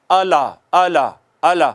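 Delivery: اعلیٰ said without the doubled لام; wrong, loose shadda. Shown as a demonstration. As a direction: say اعلیٰ slackly, no stress on the shadda. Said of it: "یہ اعلیٰ نہیں ہے".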